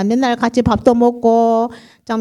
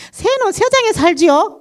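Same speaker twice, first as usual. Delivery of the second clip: put-on child's answer; 9 semitones higher than usual.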